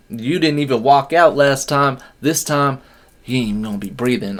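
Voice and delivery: trash-talk threat. Retold or imitated. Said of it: "It's like".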